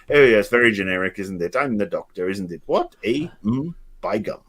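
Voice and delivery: mock Middle England voice; Middle England accent. Podcaster imagining the Doctor's accent, mock Middle England. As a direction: put on a generic Middle England accent, low-key. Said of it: "the Middle England one".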